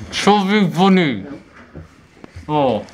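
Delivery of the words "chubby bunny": through a mouthful of marshmallows; slow words round stuffed cheeks; mouth full. Real, not acted. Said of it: "it's gonna be slimy".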